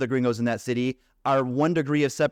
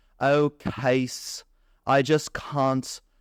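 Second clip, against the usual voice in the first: put-on British accent, very slow, drawn out. Quoting a former roommate's words, in a put-on British accent. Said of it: "I'll do it in a British accent".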